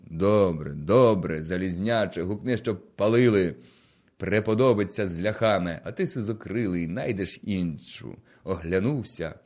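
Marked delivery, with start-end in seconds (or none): 0.1-8.2 loud reply. Acted. Gonta answers Halaida.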